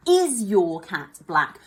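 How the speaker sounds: slow asking tune; example question. Shown as a demonstration. Teacher models the corrected question, slowly. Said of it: "Can you fix it".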